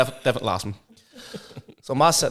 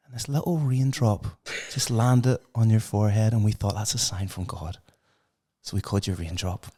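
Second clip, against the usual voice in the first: sentimental storytelling, fading softer; tender mother; 2 semitones lower, 5 dB quieter than usual. Acted. Mother finishes tender name story.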